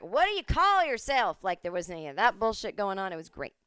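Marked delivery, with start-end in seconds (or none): 0.0-1.4 high, loud, slow mock nosy question; prying bigot. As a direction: sneer it like a judgy stranger. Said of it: "nobody at the bar was like".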